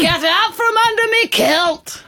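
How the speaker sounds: high, slow hammy Scottish brogue; Scottish accent. Acted. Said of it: "doing Scottish accents before".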